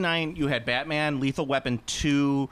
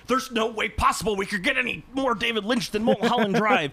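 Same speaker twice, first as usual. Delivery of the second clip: mock incredulous viewer; 7 semitones higher than usual. Comic retelling of watching Twin Peaks, high incredulous voice. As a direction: act out a floored viewer, pitched up. Acting out a David Lynch reaction.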